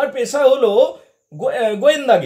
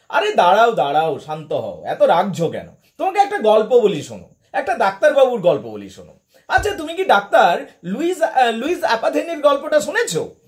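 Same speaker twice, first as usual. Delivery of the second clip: laughing. Retold or imitated. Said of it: "হাসতে হাসতে বললেন".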